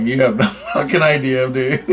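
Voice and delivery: retelling the comeback, breaking into a laugh; a laugh bursts through the quoted line; laughing mid-quote. Retold or imitated. Retelling his comeback to the guy, laughing through it. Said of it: "I'm like".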